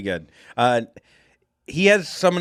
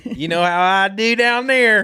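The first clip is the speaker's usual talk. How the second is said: high laugh; 7 semitones higher, 4 dB louder than usual. Acted.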